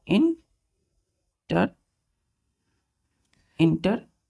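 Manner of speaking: "इंटरेस्टिंग" stretched out as इन... टर... एस... टिंग; syllable by syllable. Shown as a demonstration. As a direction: say "इंटरेस्टिंग" very slowly with long gaps between syllables. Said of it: "इसमें कितने syllable होंगे".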